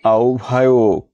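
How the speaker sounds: আহ্বায়ক said as "aobhayok"; careful আহ্বায়ক, "ao-bha-yok"; standard pronunciation. Shown as a demonstration. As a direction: turn হ্ব in আহ্বায়ক into "obh". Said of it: "প্রমিত উচ্চারণ কোনটি".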